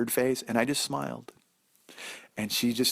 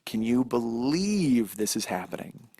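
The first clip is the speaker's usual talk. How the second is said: slow burn; slower than usual. Pretend. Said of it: "there's a thing called a slow burn".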